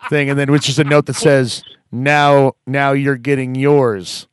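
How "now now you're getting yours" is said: loud, slow, drawn-out mock threat; mock ominous. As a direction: read out a joke threat note, breaking into a laugh. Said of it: "act like they're ominous".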